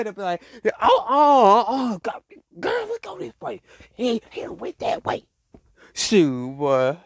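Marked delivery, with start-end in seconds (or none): 0.0-5.2 put-on bossy girlfriend voice. That one girl in the group leading the way, high and excited. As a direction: chase the group along in a high voice. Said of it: "that one girl right there".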